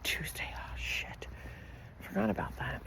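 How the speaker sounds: sudden hushed whisper, caught off guard. Real, not acted. Remembering a forgotten Tuesday bid, whispered. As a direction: drop to a breath as the deadline hits.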